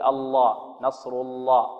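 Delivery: الله said with a thin lam; wrong weak lam. Shown as a demonstration. Teacher imitating the wrong thin lam. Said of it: "خطأ هذا".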